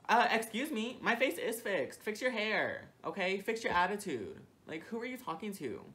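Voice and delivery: high, loud indignant comeback; indignant sass. Retold or imitated. Talking back to the manager, loud and offended. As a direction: snap back, offended and sassy.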